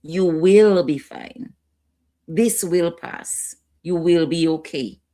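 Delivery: slow, firm "You will be fine"; the right way, steady and reassuring; calm reassurance. Shown as a demonstration. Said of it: "You're fine" is not gonna work".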